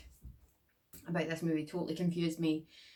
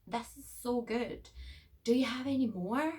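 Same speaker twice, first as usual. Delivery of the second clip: put-on greedy girl; 7 semitones higher, 3 dB louder than usual. Mocking the girl begging friends for more burger, high and greedy. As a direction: savor it like a spoiled girl. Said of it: "she's like".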